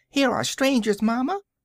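put-on very high, shrill, piercing childlike cry. An unseen person cries out to their mamma, in a shrill childish voice. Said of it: "cried the shrill and childish voice".

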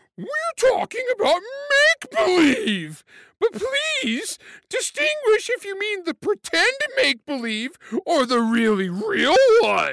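goofy, very high, swooping sing-song stupid voice. Reading viewers' tweets aloud on the show as one person, in a stupid voice. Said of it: "my stupid voice".

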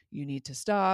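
ordinary delivery

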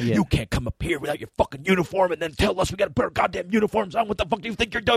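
mock very high, furious mumbling rant, climbing in pitch. Speaker re-enacts their past self snapping during an argument, mock angry mumbling. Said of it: "just mumbling angry".

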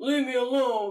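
big, burly, dismissive-sounding voice. Picturing a character as big and burly, brushing off help: Kvothe as big and burly. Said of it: "I just picture him as, like, big and burly".

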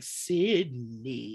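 slow, drawn-out calling voice, name stretched. Laughing at a scene with a dead mom's vision: Maureen Prescott voice. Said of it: "her mom in my head being like".

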